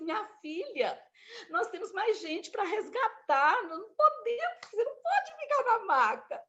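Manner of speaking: high, patient but firm voice; firm firefighter. Retold or imitated. Firefighter telling the patient to get off the stretcher, firm. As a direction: tell her kindly she must leave the stretcher. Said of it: "ele falou assim".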